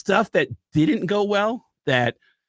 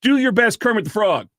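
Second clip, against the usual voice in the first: higher-pitched, pushy mock command; a touch of bossy insistence, raised pitch; mock rude demand; 6 semitones higher, 4 dB louder than usual. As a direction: imitate a curt order taken out of context. Edited clip makes him sound rude.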